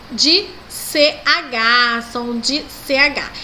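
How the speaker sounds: de C H traag en nadrukkelijk; drawn-out teacher stress; slow emphasis. Shown as a demonstration. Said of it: "característica ali".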